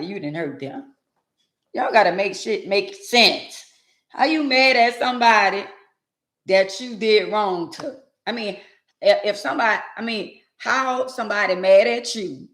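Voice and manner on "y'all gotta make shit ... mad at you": high, worked-up challenge. Real, not acted. Host challenging people who hurt others, worked up. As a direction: raise the pitch in pointed disbelief. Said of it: "let me slow down".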